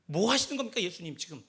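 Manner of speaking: Peter scolding Jesus with mild exasperation; Peter rebuking. Acted. Peter protests to Jesus, mildly indignant rebuke. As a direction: raise the voice a little in reproach. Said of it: "하고 베드로가 예수님을 꾸짖는다는".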